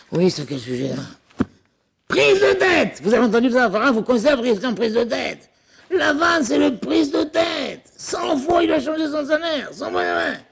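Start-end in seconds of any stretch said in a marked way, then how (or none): 2.1-3.0 high, ringing mock announcement; high exclaimed wordplay; mock exclaimed pun. Mocking Laban's name as a pun. 5.9-10.4 high, slow, exclaimed mockery; teasing raised voice; mock outrage. Mocking Laban the cheat.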